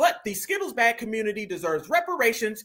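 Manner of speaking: ordinary delivery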